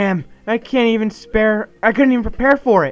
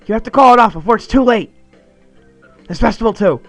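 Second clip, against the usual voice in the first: high, loud frantic tirade; panic attack rant; 5 semitones higher, 8 dB louder than usual. Acted. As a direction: scold his friend in wild panic. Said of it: "panic attack".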